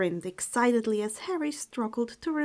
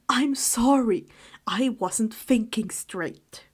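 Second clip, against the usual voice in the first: whispered apology; 4 dB louder, slower than usual. Acted. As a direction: hush it out, ashamed. Harry apologizing softly to owl.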